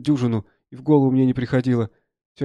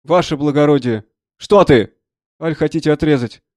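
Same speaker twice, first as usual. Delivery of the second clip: raised, dismayed exclamation; alarmed soldier; 2 semitones higher, 7 dB louder than usual. Acted. Soldier realizing the doctor means to amputate, alarmed. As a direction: protest in alarm to a superior.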